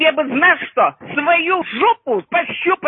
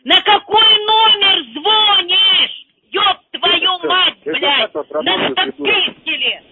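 angry yelling; 3 semitones higher, 4 dB louder, slower than usual. Real, not acted. Old woman yells at caller.

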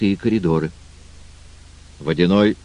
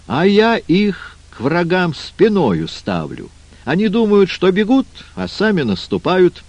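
water spirit voice; 10 semitones higher than usual. Acted. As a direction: play the crafty water king. Водяной speaks, high put-on voice.

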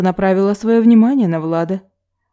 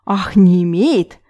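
slow, cold and angry on имеет; barely held anger; slower than usual. A narrator's reading. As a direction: drag out «не имеет» with held-back fury. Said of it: "не сдержала злости в голосе Маша".

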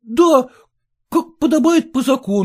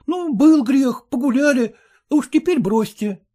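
ordinary delivery, nothing marked

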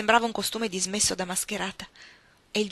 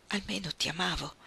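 much softer, struggling to get it out; barely managed; 7 dB quieter than usual. A narrator's reading. Newland crushed, confessing love to Ellen, faint. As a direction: force the words out faintly. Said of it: "riuscì a dire".

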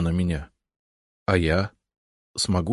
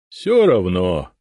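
smirking; 5 dB louder, much slower than usual. Acted. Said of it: "усмехнулась средняя голова".

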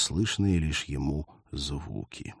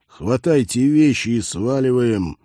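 loud order; 4 semitones higher, 7 dB louder than usual. Acted. Sergeant orders retreat.

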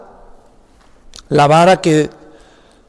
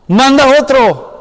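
"Manda otro" higher, louder and slower, begging; pleading Moses; 4 semitones higher, 4 dB louder, slower than usual. Acted. Moses begging God to send someone else, higher and louder. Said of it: "él realmente está diciendo".

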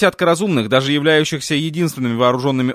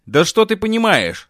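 breaking into a shriek; 7 semitones higher than usual. A narrator's reading. Girl snaps at the sheriff with a shriek. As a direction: voice cracks up into a high shriek. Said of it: "сорвалась на визг девушка".

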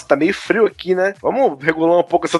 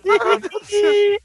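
very high, mock-panicked wail; hammed-up squealed cry; retold scream; 14 semitones higher than usual. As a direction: imitate someone shrieking in the shower. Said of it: "ela começa a gritar".

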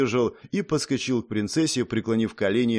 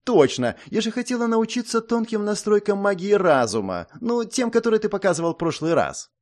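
excited princess; 9 semitones higher than usual. Acted.

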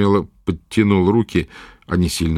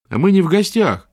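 put-on high, earnest boy's voice; a lad standing his ground; young boy; 10 semitones higher than usual. A narrator's reading. Boy Potyk answers.

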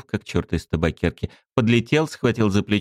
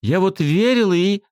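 put-on high girl, trailing off; 11 semitones higher, 3 dB louder than usual. A narrator's reading. Svetka trails off.

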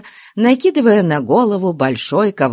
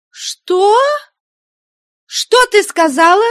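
much higher, loud shocked cry; nun shouting at cheeky girl; outraged shout; 4 dB louder than usual. Acted. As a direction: shriek in disbelief. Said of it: "закричала мать Веринея".

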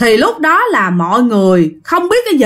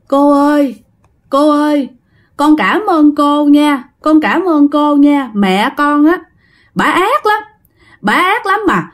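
put-on higher, slower sobbing little-girl plea; sobbing like a child; 4 semitones higher than usual. Dead girl thanking the manager, childlike sobbing. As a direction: sob out the thanks like a small child. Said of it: "vừa nói vừa khóc mà theo cái kiểu tức tưởi".

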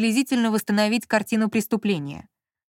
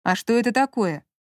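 surprised. Acted. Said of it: "удивлённо проговорил Маркиз".

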